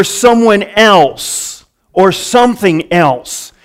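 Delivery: slow, deliberate sermon delivery; emphatic preaching. Real, not acted. Preacher explaining vicarious death to the congregation, emphatic and measured. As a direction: preach it out with weight on the key words.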